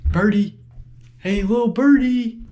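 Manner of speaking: loud sing-song call. Real, not acted. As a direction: call out for the bird. Calling out for the bird.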